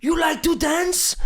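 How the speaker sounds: high, slow sneering question right in his face; mocking taunt. Manager in the player's face, mocking high slow taunt. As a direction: taunt him, drawing it out with scorn. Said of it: "He's like".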